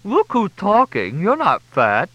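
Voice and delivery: high, slow mouth-full retort; loud, food-muffled protest. A narrator's reading. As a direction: talk thickly through a mouthful of cake. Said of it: "Crystal's voice was muffled through".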